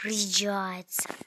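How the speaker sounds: breathy pleading whisper. Real, not acted. Whispering a plea to teammate Colt. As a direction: beg the teammate under your breath.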